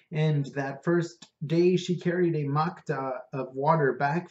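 a hint of an Indian accent, eager to tell; lightly voiced Indian cabbie. Prabhu recalls first seeing Parvati, lightly accented. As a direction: Prabhu fondly telling his friend about Parvati. Prabhu continues his story.

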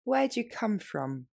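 natural pace. Shown as a demonstration. Teacher saying the question at natural speed. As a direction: say it like in real conversation. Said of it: "Et plus rapidement, plus naturellement".

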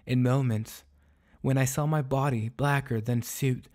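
earnest, formal soliloquy, measured phrasing; a restrained lament, carefully enunciated; lightly voiced despairing dog. Lonely dog pleading to the moon before dawn, restrained lament.

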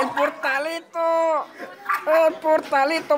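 exasperated cry. Real, not acted. Lamenting lost portal in game.

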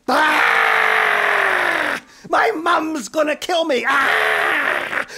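high, loud screaming in horror; panicked scream. Acted. Girl screaming at her colored face in the mirror.

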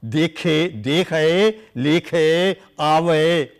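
dekhe, lekhe, avaye, slowly with final vowels sounded; recited scripture words. Shown as a demonstration. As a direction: sound out each word carefully. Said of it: "some other example".

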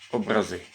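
образи stressed on the final syllable, ЗИ; образи as образи́, stress at the end; stress on last syllable. Shown as a demonstration. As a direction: say об-ра-ЗИ́, weight on the last vowel. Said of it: "як поставиш наголос".

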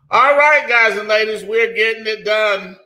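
rally the room like a hype man; hyped-up opener. Real, not acted. Hyped host opening a segment.

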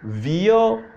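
"Vyoo" split into vi-oo, held level; vioo for mirrors. Shown as a demonstration. Teacher repeating the mirror word slowly. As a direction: say "Vyoo" as vi-oo, two beats. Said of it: "You don't hear the difference?".

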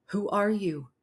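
firm, assertive question. A narrator's reading. Mina challenges the creature on her thighs, assertive. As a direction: ask it with a bit of push. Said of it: "Mina asked with assertiveness".

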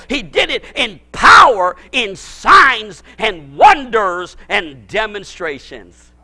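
preacher driving the point with power; preaching shout. Real, not acted. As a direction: hammer the words home.

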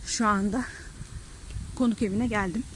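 breathless after a brisk walk; panting between words; out of breath. Real, not acted. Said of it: "Nefes nefese kaldım".

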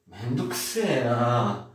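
slow dragging "Mendokuse na"; bored annoyed kid. Retold or imitated. Kid told to take out trash drags out annoyed "Mendokuse na". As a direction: groan it like a kid asked to do chores. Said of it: "pro teu filho".

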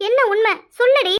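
loud demand. Acted. Mother demanding the truth from her daughter, loud. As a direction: cut through her excuses.

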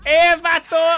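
loud, high Mexican gang holler; mock Mexican accent, shouted; Mexican gangster accent. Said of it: "I love the Mexican gangs".

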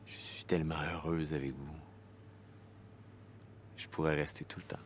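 soft, low-key and intimate; subdued, private avowal; quiet confession. Acted. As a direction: drop to a hushed admission. Acted confession of happiness and love.

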